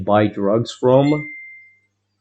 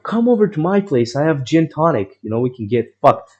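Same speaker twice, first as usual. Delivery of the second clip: Boris invitation; 5 semitones higher than usual. Retold or imitated. Boris invites him over.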